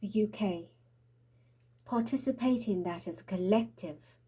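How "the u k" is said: whispering. Real, not acted. Naming the country.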